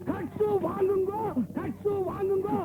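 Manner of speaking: high, drawn-out auctioneer's call; auctioneer's cry. Acted. PA nagging the minister like an auctioneer, high drawn-out cry. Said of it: "ஏன் ஏல விடுற மாதிரி கத்துற?".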